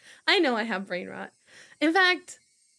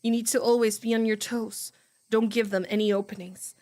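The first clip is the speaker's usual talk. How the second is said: steady visual-novel narration read; story narration. Acted. Streamer reading the novel aloud, narration. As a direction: read the inner voice evenly. Reads character inner monologue.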